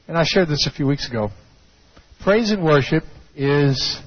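normal talking voice

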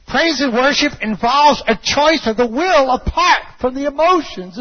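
high, driving sermon delivery; full-force preaching. Acted. Preacher urges congregation to worship in pain, full-force preaching. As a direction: build to a high pulpit shout.

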